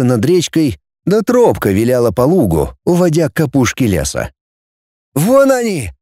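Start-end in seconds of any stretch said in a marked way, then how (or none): 5.1-5.9 much higher excited yell; boy spotting the group, excited yell. Acted. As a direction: yell it out, pointing into the distance. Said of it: "завопил Сухов".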